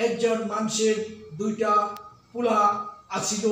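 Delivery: Dhaka dialect. Shown as a demonstration. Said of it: "Dhaka অঞ্চলের ভাষা হলো".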